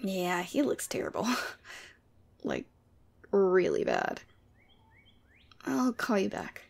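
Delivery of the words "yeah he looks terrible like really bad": hushed whisper. Acted. Telling a friend on the phone how the hungover listener looks, whispered. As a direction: keep it down so he won't hear.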